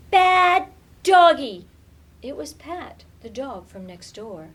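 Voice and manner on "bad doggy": high, loud, slow shout; girl yelling at a scary dog; shooing shout. Acted. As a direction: drive the dog off with a sharp yell. Shooing the dog next door.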